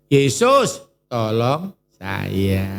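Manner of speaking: a desperate plea for help; pleading prayer. Pretend. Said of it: "jangan lupa tanya". (doa memohon, pelan dan lirih di akhir)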